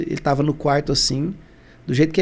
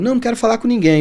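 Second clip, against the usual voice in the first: higher and louder retold refusal; father turning visitors away, higher and louder; mock refusal, raised; 7 semitones higher, 4 dB louder, faster than usual. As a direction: push them away with a raised voice.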